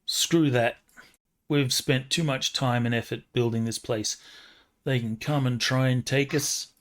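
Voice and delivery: thick New York mother voice; New York accent. Acted. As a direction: play the mom with heavy New York accent. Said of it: "In a super thick New York accent".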